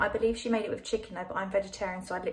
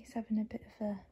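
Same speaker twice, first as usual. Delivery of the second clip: whispering; 6 dB quieter, faster than usual. Real, not acted. Dog dozing beside her.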